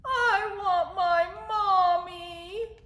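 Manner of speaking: high, very slow owlet wail; Bill. Acted. Littlest owl missing mother, high drawn-out wail. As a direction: stretch it into a babyish, mock-tearful wail. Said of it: "What did Bill say?".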